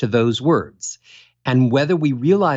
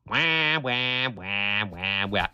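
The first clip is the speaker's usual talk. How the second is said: falling "wah" notes, each softer and lower; mock sad trombone; 4 semitones lower, 8 dB quieter, much slower than usual. Playback mocking the caller, sinking softer and lower. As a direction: sing a deflating sad trombone. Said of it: "it goes".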